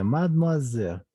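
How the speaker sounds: mademoiselle with "zel" clearly voiced; final E sounded. Shown as a demonstration. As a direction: say mademoiselle as "mad-mua-zel". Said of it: "Esta E sí se pronuncia". (mademoiselle pronunciando la E de "zel")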